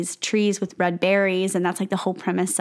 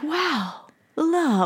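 moved killer; 8 semitones higher than usual. Retold or imitated. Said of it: "He's like".

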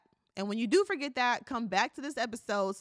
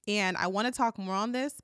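voice cracking. Real, not acted. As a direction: voice breaking as she speaks. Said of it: "my voice keeps cracking".

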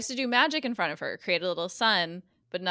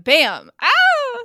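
much louder, high startled shout; mock jump scare; 9 semitones higher, 13 dB louder than usual. Reenacting the show's jump scare with a loud fake scream. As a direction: blurt it like a sudden fright.

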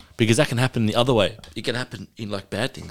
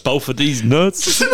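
drawn-out punchline; 6 semitones higher, 3 dB louder, much slower than usual. Pretend. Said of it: "Okay, go on".

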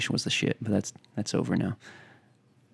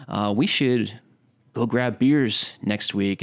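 texting a friend; much slower than usual. Retold or imitated. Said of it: "you know".

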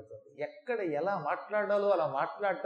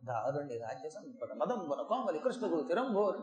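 soft, low, limp verse reading; deliberately weak, undramatic chanting; mock feeble recitation; 4 semitones lower, 6 dB quieter than usual. Shown as a demonstration. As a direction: drone the heroic verse with no force. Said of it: "దుర్యోధనుడును భీముడు మధ్యలో మాట్లాడుకున్నట్టు ఉంటుందా".

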